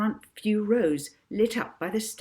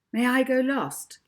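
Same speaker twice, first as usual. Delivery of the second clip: polite; 6 semitones higher, 5 dB louder than usual. Acted. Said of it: "Molly asked politely".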